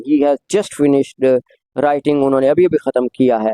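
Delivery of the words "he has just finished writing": slow, careful corrected line; slow corrected read. Shown as a demonstration. Teacher reading the corrected sentence slowly. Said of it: "he has लगाते हैं".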